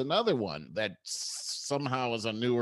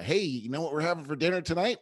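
mock threat; 5 semitones higher, faster than usual. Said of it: "threaten him by saying".

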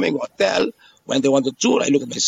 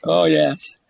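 laughing; much slower than usual. Real, not acted. Jokes about going home once paid.

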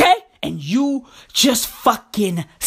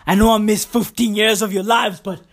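a hint of a breezy dad, lower; returning dad; 4 semitones lower than usual. Father greeting his grown kids, lightly voiced and lower. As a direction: lightly voice a father coming home after fifteen years. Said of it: "the first thing he says".

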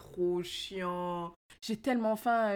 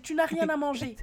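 hammed-up scolding mom, higher; mock the exasperated mother; 5 semitones higher than usual. Friend retelling the fridge scene: hammed-up mom voice. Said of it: "elle dit".

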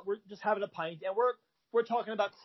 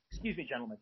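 very calm; 6 semitones lower, 8 dB quieter, faster than usual. Retold or imitated. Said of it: "Brian, very calmly".

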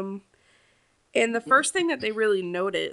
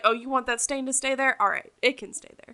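mocking; 4 semitones higher, 4 dB louder than usual. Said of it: "You're like".

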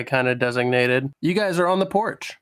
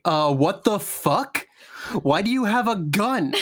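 baffled Robert; 6 semitones higher than usual. Retold or imitated. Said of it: "Robert's gonna be like".

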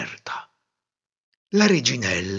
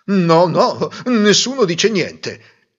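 reassuring; 7 semitones higher, 6 dB louder, slower than usual. A narrator's reading. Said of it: "lo rassicurò il re".

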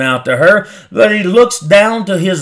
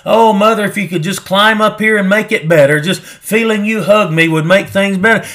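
mock childish pleading. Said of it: "He's not going through childish things".

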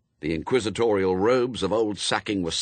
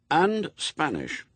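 put-on slow, higher-pitched, firm boy's reply; 9 semitones higher, slower than usual. A narrator's reading. Adam answers his friends about the inquisition, firm. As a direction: say it firmly and deliberately. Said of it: "said Adam firmly".

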